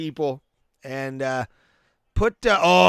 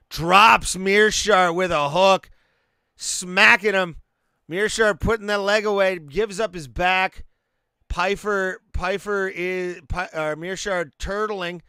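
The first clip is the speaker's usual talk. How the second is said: raised, rising play-by-play as the knockdown lands; excited fight call; 4 semitones higher than usual. Real, not acted.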